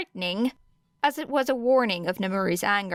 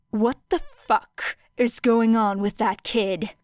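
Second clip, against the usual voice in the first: muffled. Acted. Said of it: "voice muffled against his arms".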